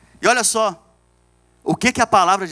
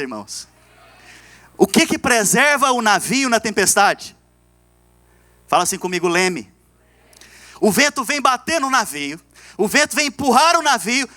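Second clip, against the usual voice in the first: higher-pitched sermon delivery; rousing preaching; 6 semitones higher than usual. Real, not acted. Pastor teaching the church about the rudder in storms, rousing preaching. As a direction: preach it out, drawing out the final phrase.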